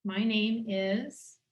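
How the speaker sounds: slow, deliberate "My name is"; slow repeat. Shown as a demonstration. Facilitator repeating the statement, slow and deliberate. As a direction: repeat "My name is" slowly, noticing the body. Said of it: "say it again".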